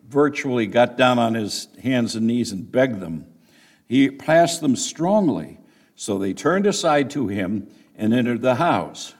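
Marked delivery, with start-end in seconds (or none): 3.9-5.6 "strongly" given weight; stress on strongly. Shown as a demonstration. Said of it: "Put the emphasis on that word strongly".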